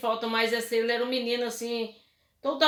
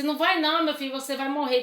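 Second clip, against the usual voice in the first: tearful plea; 4 semitones higher, faster than usual. Retold or imitated. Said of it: "Comecei a chorar".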